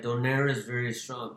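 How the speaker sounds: mock Russian accent; clipped Russian accent impression. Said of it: "you just did your Russian accent".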